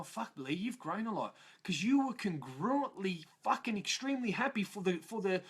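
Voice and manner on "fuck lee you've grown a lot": quiet self-praise. Retold or imitated. Speaker quietly praising himself, warm and proud. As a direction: tell yourself quietly how far you've come. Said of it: "that part of me that go".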